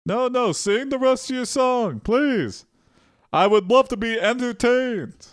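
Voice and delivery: hammed-up, high troll voice; mock-entertained troll. Acting out the troll heckling the bard.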